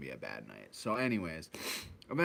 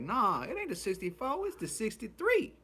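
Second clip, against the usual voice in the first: imitating the bus driver; 3 dB louder than usual. Driver corrects him.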